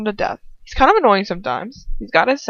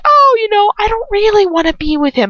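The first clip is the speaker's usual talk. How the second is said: high, loud mock whine; hammed-up whiny impression of Hermione; mocking her; 12 semitones higher, 6 dB louder than usual. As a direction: parody her fake reluctance. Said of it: "'Cause she's like".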